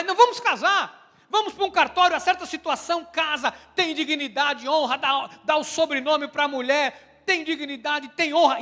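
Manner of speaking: loud, emphatic declaration; fervent resolve. Retold or imitated. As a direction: proclaim the decision with conviction. Voiced resolve after hearing sermon.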